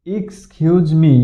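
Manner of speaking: slow, clear "এক্সকিউজ মি"; careful model. Shown as a demonstration. Teacher reads the phrase off the whiteboard slowly. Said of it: "এখানে".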